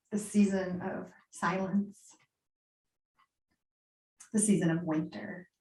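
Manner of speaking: guided meditation. Acted. Guides listeners into yoga nidra.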